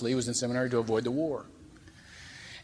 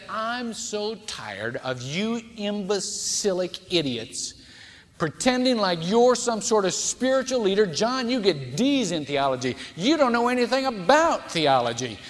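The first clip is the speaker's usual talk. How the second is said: sermon retelling of a furious outburst, rising to a loud high rant; 5 semitones higher, 4 dB louder than usual. Retold or imitated. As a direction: start slow and scornful, then build to a loud, high tirade. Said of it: "this Dan stood up and just was furious".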